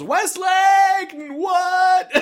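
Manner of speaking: the villain seeing the face come off, mock shocked shout. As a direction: shout it in stunned disbelief.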